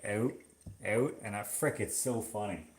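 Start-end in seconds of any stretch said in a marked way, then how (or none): 0.0-1.1 "out" with a raised Canadian vowel, like eh-oot; "out" repeated with exaggerated Canadian raising; grandfather's Canadian out. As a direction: imitate a Canadian grandfather saying "out". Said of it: "He'll say, like".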